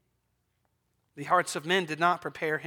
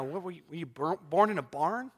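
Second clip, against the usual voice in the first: ordinary delivery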